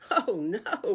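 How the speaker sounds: loud groaned "oh no"; groaning. Acted. Rabbit sees the shamrocks on Goat's table, loud groan. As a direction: groan out the dismay. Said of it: "Rabbit groaned".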